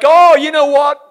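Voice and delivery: mock-worried preachy tone; mocking people wary of riches; mocking pious caution. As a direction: send up the cautious churchgoer. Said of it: "People are like".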